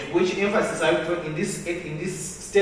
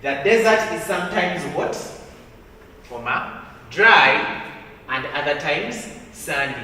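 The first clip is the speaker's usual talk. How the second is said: louder recap; 5 dB louder than usual. Shown as a demonstration.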